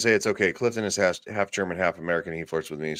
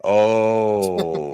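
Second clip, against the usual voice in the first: whispered oh. Real, not acted. Whispering back to conspirator.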